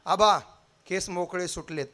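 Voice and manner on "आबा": slow, drawn-out cry of a mother's name call; mother wailing for her fallen son; anguished wail. Acted. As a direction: wail the boy's name as if he's dead. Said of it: "हंबरडा फोडला".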